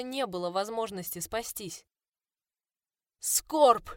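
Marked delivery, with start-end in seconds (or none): 3.2-3.9 loud, high wailing cry; anguished howl. Acted. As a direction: howl a fallen friend's name. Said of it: "Медекс взвыл".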